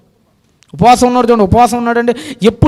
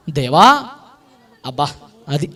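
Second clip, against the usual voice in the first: lower, hushed call to God; trembling plea; 9 semitones lower, 5 dB quieter than usual. Acted. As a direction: speak like a man shaking before God. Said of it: "వణికిపోతూ".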